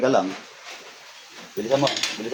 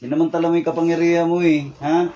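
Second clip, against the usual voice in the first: raised, loud scolding; angry scolding; 3 semitones higher, 3 dB louder than usual. Real, not acted. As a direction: let him have it, voice up and sharp. Healer scolding the spirit.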